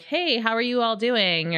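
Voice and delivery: drawled friendly server hello; lightly Southern, drawn-out greeting. Retold or imitated. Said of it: "I'm like".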